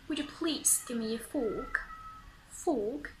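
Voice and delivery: British FORK with rounded lips, no R; British accent. Shown as a demonstration. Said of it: "round your lips in order to pronounce it".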